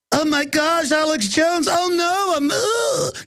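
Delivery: high, squealing imitation sliding into a moan; mocking horrified trendy. Trendy finding Alex Jones magazine, mock horror. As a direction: rise to a mock-horrified whimper.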